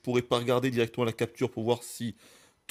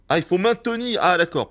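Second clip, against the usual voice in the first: surprised realization; 8 semitones higher, 7 dB louder than usual. Real, not acted. Realizing he must hold the button.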